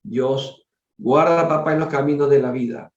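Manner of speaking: measured, formal reading aloud; story narration. A narrator's reading. Reader telling a family's spiritual story to listeners, story narration. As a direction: read it out as a solemn tale.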